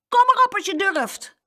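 put-on high, loud boyish taunt; plucky little fighter's yell; called-out dare. A narrator's reading. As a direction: shout it as a fighting challenge. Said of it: "riep Jeroen".

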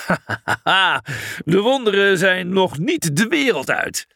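hoge uitroep na een schaterlach; lachend. A narrator's reading. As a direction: lach hardop en roep verwonderd. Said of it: "lachte Heracles". (lachend uitgeroepen)

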